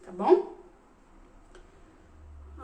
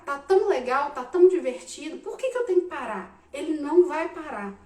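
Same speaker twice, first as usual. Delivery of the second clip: ordinary talk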